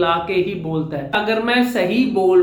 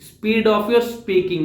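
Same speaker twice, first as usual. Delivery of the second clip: very slow, each word stretched; slowed-down teaching emphasis; much slower than usual. Shown as a demonstration. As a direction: drag it out to show the point about speed. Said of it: "सबसे important चीज".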